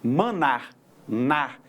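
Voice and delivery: "manar" and "nar" with an open final "a"; teacher isolating the open "a" in "nar"; open vowel sound. Shown as a demonstration. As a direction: open up the last vowel of "manar", then repeat "nar" alone. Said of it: "é o som aberto".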